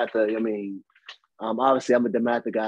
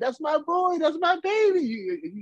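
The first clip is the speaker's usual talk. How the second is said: very high, screaming shriek. A host asks a guest if she was a sideline parent, imitating a screaming sideline mom. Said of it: "on the sideline that's screaming like".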